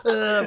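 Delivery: imitated twitchy, shaking grunts; imitated tweaker shudder. Showing friend the clown on the bed, mock convulsing noises. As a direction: mimic someone tweaking out with wordless jerky noises. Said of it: "shaking, tweaking out".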